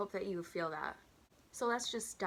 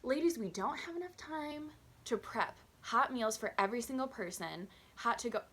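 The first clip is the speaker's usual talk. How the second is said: higher, explaining with sarcastic patience; exasperated lecture; 4 semitones higher than usual. Pretend. Waitress silently scolding rude customers, exasperated. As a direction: scold the ladies as if to children. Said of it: "I'm not saying this out loud".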